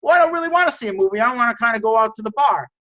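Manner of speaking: mildly whiny pretend disagreement; acted friendly protest. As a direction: push back fast and high, playing the friend. Acted disagreement between two friends.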